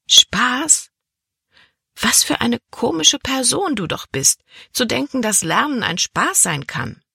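high-pitched, scoffing disbelief; incredulous. Acted. Girl scoffs that school is fun.

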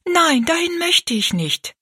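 put-on high, slow refusal from a young girl; pleading girl's protest. A narrator's reading. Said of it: "sagte Rosalie rasch".

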